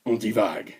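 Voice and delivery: very low, soft murmur; accent dropped. Pretend. Repeating "on divague" after losing the accent, low and soft. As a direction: sink deep and quiet on each word. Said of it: "j'ai réussi à perdre mon accent".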